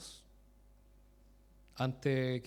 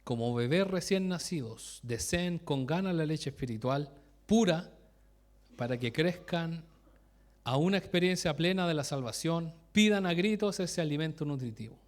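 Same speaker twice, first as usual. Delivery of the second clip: scripture reading; 2 semitones higher, 3 dB louder than usual. A narrator's reading. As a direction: proclaim the verse phrase by phrase, deliberately. Reads a Bible verse aloud.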